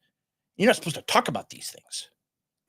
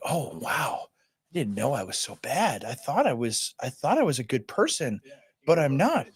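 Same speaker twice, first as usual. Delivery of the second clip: mock contrite; 3 dB quieter than usual. Podcaster mimicking a guilt-stricken white listener, mock contrite. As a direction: imitate a crestfallen, guilt-stricken believer.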